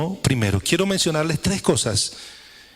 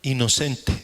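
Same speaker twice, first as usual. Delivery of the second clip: pause, then inocente said slowly and deliberately; emphasis on inocente; 3 semitones lower, slower than usual. Shown as a demonstration. Preacher to congregation, stressing inocente with a pause. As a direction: set inocente apart with a pause. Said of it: "quiero enfatizar esa palabra inocente".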